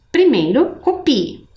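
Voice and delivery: whispered "primeiro copie". Real, not acted. Teacher whispering an aside to the class. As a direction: drop to a whisper for the instruction. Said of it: "whispered aside".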